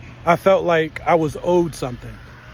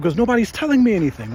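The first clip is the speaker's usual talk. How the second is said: retold upset; 6 semitones higher, faster than usual. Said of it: "Like, I got upset".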